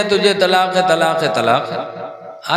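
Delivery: slow, fading, half-laughing repeat; sheepish retelling. Retold or imitated. Harun confessing to the clerics, slow and fading with a laugh. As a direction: trail off sheepishly.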